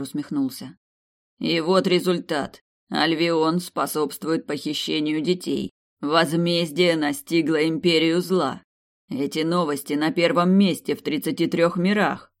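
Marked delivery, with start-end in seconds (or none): 1.4-12.3 slow, cold, menacing ruler; each word weighed, icy and slow; cold rasping evil emperor. Acted. Emperor scolds slowly. (медленно, холодно, с угрозой)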